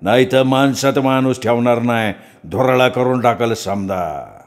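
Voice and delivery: slow, drawn-out trance warning; threatening possessed priest. Acted. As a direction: warn them slowly as the goddess. (घुमत इशारा देणारा भगत)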